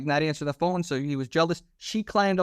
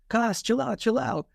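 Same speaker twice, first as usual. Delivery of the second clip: raised, urgent calm-down; boss calming him; 7 semitones higher than usual. Retold or imitated. Boss walking in on the bloody scene, urgent higher calming. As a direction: call it out higher to settle him.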